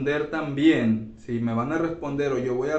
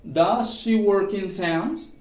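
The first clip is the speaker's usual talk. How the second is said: slow, careful, with a rising question tune; slow model question; 4 semitones higher, slower than usual. Shown as a demonstration. Teacher modelling the question slowly for the class. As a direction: spell out each word for the students. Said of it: "cerramos con el signo de interrogación".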